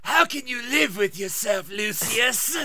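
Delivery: lightly voiced Voldemort quote; a hint of the Dark Lord; quoting a favorite Voldemort line; Voldemort impression. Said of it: "my favorite is".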